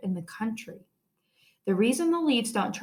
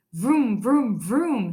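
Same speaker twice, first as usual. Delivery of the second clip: mock motorcycle noises; 4 dB louder, much slower than usual. A narrator's reading. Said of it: "he yells".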